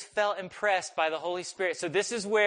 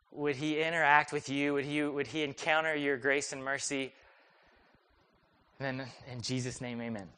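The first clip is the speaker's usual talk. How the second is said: softly lowered praying voice; gentle retold prayer; 3 semitones lower, 4 dB quieter than usual. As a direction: pray gently for someone, lower toward the amen. Retelling his prayer over sick man.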